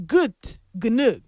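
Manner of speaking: Gut Gnug repeated as two separate, careful words; careful pronunciation. Shown as a demonstration. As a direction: sound out "Gut Gnug", pausing between the words. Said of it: "the actual pronunciation of that song is".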